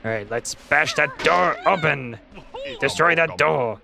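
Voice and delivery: gruff pirate captain growl. Acted. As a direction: talk like a salty old pirate. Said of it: "that ridiculous pirate voice".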